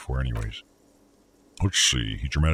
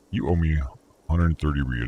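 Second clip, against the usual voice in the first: a lightly put-on aristocratic accent, rolling the R in real; mock aristocratic accent; 2 semitones higher than usual. Shown as a demonstration. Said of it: "He pronounces the R with a mock aristocratic accent".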